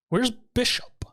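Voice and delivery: breathy hushed wondering; whispered question. Retold or imitated. Whispering to the others where Bishop went, hushed. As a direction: whisper it like a worried aside.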